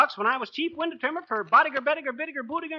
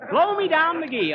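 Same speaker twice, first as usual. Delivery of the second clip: laughing; 7 semitones higher, 6 dB louder than usual. Real, not acted. Says nickname laughing.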